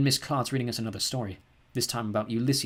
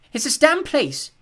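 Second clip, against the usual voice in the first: much higher and louder, slow and strained; upset outburst; 9 dB louder, much slower than usual. A narrator's reading. Mum rails at the dirty house, upset outburst high and loud. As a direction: let it burst out at the house.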